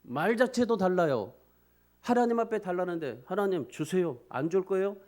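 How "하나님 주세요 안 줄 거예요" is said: curt, pushy demand of God; mock-entitled "하나님, 주세요"; demanding prayer. Shown as a demonstration. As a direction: make "주세요" a blunt order, then a mild challenge. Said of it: "이러지 않잖아요".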